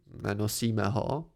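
slow, a touch hurt; slightly offended. Acted. Man conceding to Pente, slow and a touch hurt. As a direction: concede it grudgingly. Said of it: "připustil jsem trochu dotčeně".

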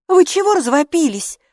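loud, high snap; barking. A narrator's reading. Hilla snaps at the boys from her tent. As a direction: bark at them to shut up. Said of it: "рявкнула она".

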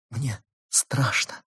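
slow, soft frightened sob; sobbing. A narrator's reading. Wife in labour confesses her fear, sobbing softly. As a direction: whisper the fear through a sob. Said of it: "всхлипнула она".

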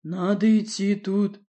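slow, calm odd voice; unperturbed. Acted. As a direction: say it evenly, unbothered. Varvara's odd voice.

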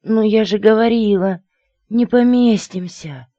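high, whining squashed-crow wail. A narrator's reading. Crow squashed in the closet, high and hysterical. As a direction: wail it high, stretching the last word. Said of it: "стон раздавленной вороны".

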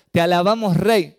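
proud correct version; corrected lyric. Retold or imitated. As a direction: sing out te alabamos rey clearly. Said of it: "No, no dijo eso, dijo".

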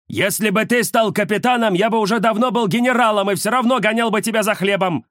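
высоко и громко, с напором; дед перекрикивает внука; сердитый дедушка. Acted. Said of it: "ответил дедушка". (дедушка громко отвечает внуку)

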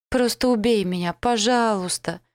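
desperate plea. Acted. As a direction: beg him through hysterical tears. Hysterical girl begging elf to kill.

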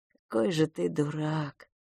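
soft, tired sigh of words. Acted. Fil to his crying brother, soft and sighing. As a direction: sigh it out fondly, quietly. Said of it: "вздохнул Филипп".

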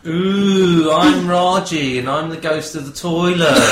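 lightly voiced ghost, slow moan; a hint of a spooky ghost. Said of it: "do your ghost impression now".

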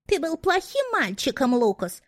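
put-on high, squeaky girlish voice; breathy cutesy giggly teasing. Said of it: "Писклявым голосом изобразил какую-то девчонку". (писклявый девичий голосок)

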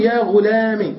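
"غلام" said "ghulami"; kasra ending. Shown as a demonstration. Teacher reading out the three vowellings, i ending. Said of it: "بالكسر والفتح والضم".

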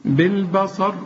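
بالبصر with light ب, dark ص and ر; heavy sad and ra. Shown as a demonstration. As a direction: thicken only the end of بالبصر. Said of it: "والصاد هي المفخمة".

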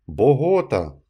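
loud call of a name across the meadow. A narrator's reading. Blind villager calling out to Nunez, a loud shout. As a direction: shout the name to find him. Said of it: "крикнув один".

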